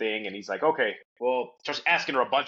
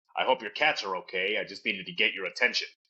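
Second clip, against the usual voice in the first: much lower, imitated girl's low put-on voice; 4 semitones lower than usual. Speaker retells what a girl said during a manic episode, in a low voice. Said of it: "she starts speaking in a low voice".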